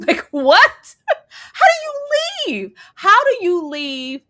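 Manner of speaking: incredulous, laughing high; laughing disbelief. Real, not acted. Wife mocking husband's plan to leave, laughing high.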